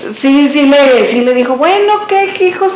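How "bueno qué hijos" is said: grandpa's gruff reply. Retold or imitated. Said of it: "Es que así decía mi abuelito".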